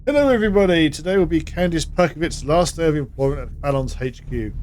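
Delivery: reading a company memo aloud; formal office announcement read. Acted. Reads out company email aloud.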